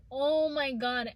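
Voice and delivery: slow, emphatic mock shock; retold dismay. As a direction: stretch out a retold oh-my-God. Retold reaction to missing turtle.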